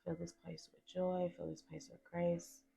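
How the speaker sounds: softly spoken invocation; spoken prayer. Real, not acted. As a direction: ask Spirit in, softly and with pauses. Prays aloud to Spirit.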